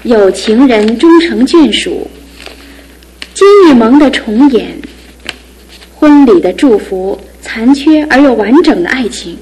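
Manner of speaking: slow, savoring recitation of headline phrases; slow poetic recital. Acted. Sister reads the wedding headlines aloud, slow and poetic. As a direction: let each phrase hang like a line of verse.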